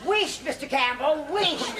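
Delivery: "wished" dicho en escocés, alargando la sh; Dorothy manda callar a Campbell con "wished" escocés, más aguda; Scots "wished" for shush. Acted. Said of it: "It's Scots for shut up".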